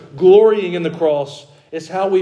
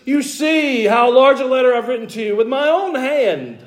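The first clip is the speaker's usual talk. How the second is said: higher, insistent apostolic emphasis; Paul's firm tone; 8 semitones higher than usual. Retold or imitated. Paul firmly telling the Galatians he wrote it himself. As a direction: press it like Paul vouching for his letter. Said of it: "this is sort of Paul's tone here".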